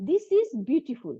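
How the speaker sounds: This is beautiful drawn out very slowly; slow model reading. Shown as a demonstration. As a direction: read it slowly for the class. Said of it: "sentence পড়তে পড়তে".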